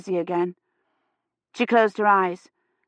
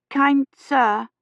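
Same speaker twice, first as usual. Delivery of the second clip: formal address; 6 semitones higher, 3 dB louder than usual. A narrator's reading. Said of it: "she began".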